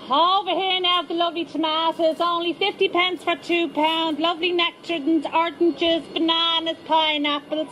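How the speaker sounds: high, sing-song market trader patter; street trader call. Acted. Market trader calling out to passing shoppers. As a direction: hawk the fruit like a Moore Street dealer.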